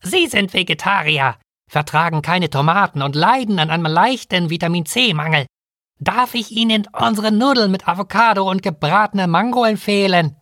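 high, croaky little bird voice; croaking. A narrator's reading. Feathered kiwi creature recommending noodles to a new guest, croaking. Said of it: "krächzte".

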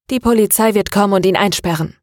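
firm, certain and quick. Acted. Maria tells her father with firm conviction. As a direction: state it with steady resolve. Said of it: "sagte Maria mit fester Stimme".

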